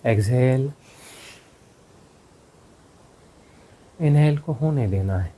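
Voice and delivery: calm breath cues with long pauses; guided meditation. Real, not acted. Teacher leads meditators through exhale and effortless inhale, guided meditation. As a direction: guide the breathing, leaving silence after each cue.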